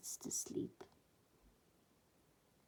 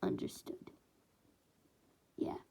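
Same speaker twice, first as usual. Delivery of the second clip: soft, hushed reply; whispered answer; 6 dB quieter than usual. Acted. Villains answer their leader obediently, whispering. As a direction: murmur back obediently.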